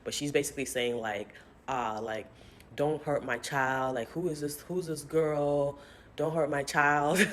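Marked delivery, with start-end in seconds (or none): 2.8-7.3 mock yell. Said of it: "kinda yelling".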